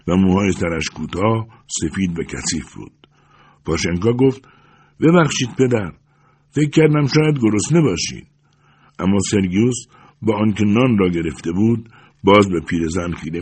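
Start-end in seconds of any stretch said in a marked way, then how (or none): 5.0-8.3 lightly voiced old woman, kindly and a touch higher; old woman's polite offer. A narrator's reading. (پیرزنی مهربان با صدایی کمی زیرتر)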